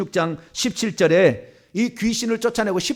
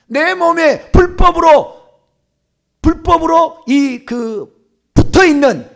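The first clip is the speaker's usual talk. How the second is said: loud, slow, higher-pitched exorcism address; commanding; 7 semitones higher, 8 dB louder, slower than usual. Shown as a demonstration. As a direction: stretch each phrase with authority. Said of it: "이렇게 얘기해야 되니".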